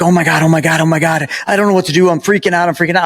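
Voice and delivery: mock freaking out. Cousin spotting Keanu Reeves, mildly imitated panic. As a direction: imitate a panicking fan, lightly. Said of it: "And he's like".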